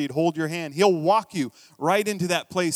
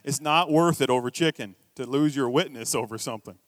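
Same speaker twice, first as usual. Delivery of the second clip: inner voice. Retold or imitated. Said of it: "but I'm thinking".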